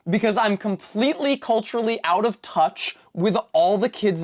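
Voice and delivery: lightly voiced child begging for cable; pleading kid voice. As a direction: beg mom like a kid who feels left out. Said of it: "I said to my mom".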